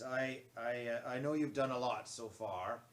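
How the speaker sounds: loud, deep commanding voice. Acted. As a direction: give an urgent quest in a deep voice. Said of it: "I'll give him a deep voice".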